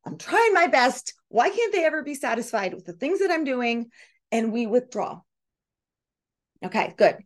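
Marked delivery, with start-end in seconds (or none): 0.0-3.9 mildly exasperated plea, pitched up; raised-pitch mock protest of someone shamed; guilty, hurt. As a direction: act out feeling unappreciated and defensive. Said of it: "We feel guilty".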